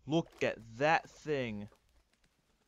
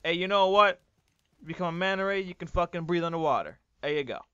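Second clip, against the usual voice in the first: imagined friendly modder; 4 semitones higher, 6 dB louder, faster than usual. Retold or imitated. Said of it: "the person would be like".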